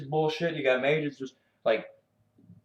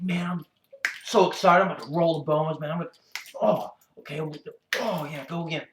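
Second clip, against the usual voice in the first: higher, sarcastic fake thrill; mock excited player; 4 semitones higher, faster than usual. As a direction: parody a hyped player rolling the bones. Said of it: "who the fuck is in here like".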